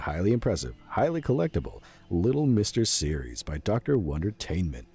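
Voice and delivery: hyped TV sales pitch; infomercial. Pretend. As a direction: pitch it to the viewers at home, full showman. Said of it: "I guess I should voice this like an infomercial".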